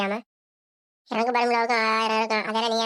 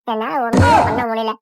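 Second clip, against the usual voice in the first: loud complaint; 6 dB louder, slower than usual. Acted. Tired mother-in-law complaining.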